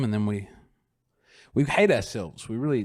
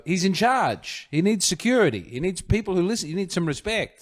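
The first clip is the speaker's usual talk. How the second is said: higher-pitched, emphatic mock reverence; mock-admiring; 6 semitones higher than usual. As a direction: play an impressed citizen insisting on his importance. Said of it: "you go".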